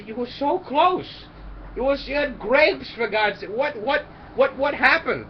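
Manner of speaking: high, slow exasperated yelling; exasperated shout. Acted. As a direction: yell it in disbelief. Dead friends shouting in disbelief.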